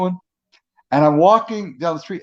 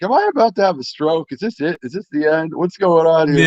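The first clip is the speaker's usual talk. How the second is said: a touch of mock dread, wondering if this is the end; mock panicked inner voice; 3 semitones higher than usual. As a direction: retell the stroke scare in a lightly hammed-up panic. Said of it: "I was freaking out".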